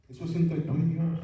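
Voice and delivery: ringing preacher's call on "entre"; emphatic declaration. Acted. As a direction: proclaim it to the whole church. Preacher's emphatic then hushed repeat.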